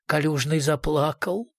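plain reading voice

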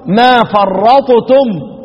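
ما فرطتم very slow and drawn out; slow recitation demo. Shown as a demonstration. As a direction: recite ما فرطتم at a crawl, letting the letters show. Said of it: "ومن قبل".

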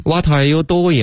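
high-pitched, clumsy mock-bad "What are you doing"; wrong pronunciation. Shown as a demonstration. Co-host echoing what never to say, mispronounced. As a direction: mangle "doing" into "do-ya". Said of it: "绝不能这么说了".

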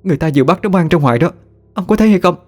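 high, rising, frantic grief; a mother begging her husband to believe her; distraught pleading. Acted.

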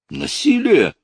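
very high, loud outcry; crying out. A narrator's reading. Lucy protests at being refused, shrieking. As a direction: cry out in protest. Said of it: "выкрикнула она".

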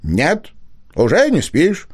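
a lightly voiced eager fox cub. A narrator's reading. Fox cub answers Alice.

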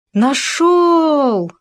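high, loud cry of discovery; sudden shout. Acted. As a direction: burst out with a joyful yell. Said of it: "внезапно закричал Хома".

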